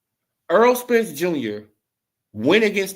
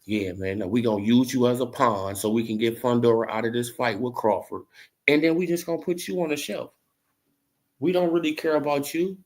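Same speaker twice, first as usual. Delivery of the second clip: lightly voiced lower boss voice; voicing Al Haymon; 6 semitones lower than usual. Vlogger voicing Al Haymon brushing Earl off, low and cold. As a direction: play the manager dismissing him. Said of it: "Now what Al Haymon gonna do?".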